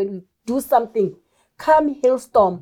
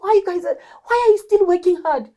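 higher-pitched mock questioning; imitated puzzled questioning; 9 semitones higher than usual. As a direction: quote baffled onlookers, pitched up. Voicing people questioning their hard work.

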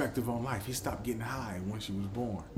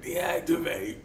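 mock robot command; 6 semitones higher, 3 dB louder, slower than usual. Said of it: "I should have said".

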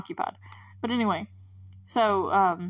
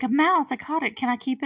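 put-on excited kid voice; 5 semitones higher, 3 dB louder than usual. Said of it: "he's like".

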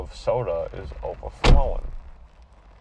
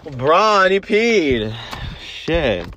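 excited yelp; 7 semitones higher, 9 dB louder, much slower than usual. Real, not acted. Seeing the spill.

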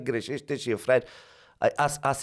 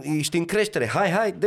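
"hai, hai, dă-i" pitched up and urging; "ești în creștere" building into a higher "hai, hai, dă-i"; rising intonation; 4 semitones higher than usual. Shown as a demonstration. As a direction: push "hai, hai, dă-i" higher, like a co-driver. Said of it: "Intonația, evident".

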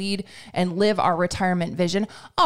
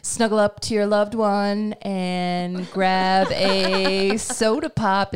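1950s DJ; slower than usual. Pretend. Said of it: "I just channeled my best nineteen fifties DJ".

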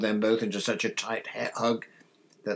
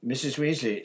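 higher-pitched, sudden call; sudden, impatient; 6 semitones higher, 3 dB louder than usual. A narrator's reading. Boy interrupting his friend's mother, sudden impatience. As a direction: blurt it, unable to hold back. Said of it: "suddenly, unable to contain himself".

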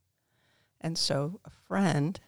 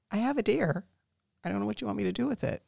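retold yell; 5 semitones higher, 3 dB louder, faster than usual. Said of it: "yell at my husband".

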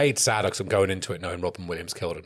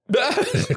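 imitated line fumble; 5 dB louder than usual. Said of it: "gets halfway through a line and goes".

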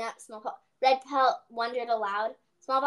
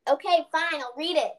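reluctant reading; 4 semitones higher than usual. Real, not acted. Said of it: "Get on with it".

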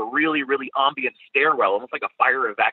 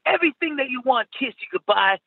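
put-on higher, greedy posh British accent; 10 semitones higher than usual. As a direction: demand the money in posh British. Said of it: "my really posh British accent".

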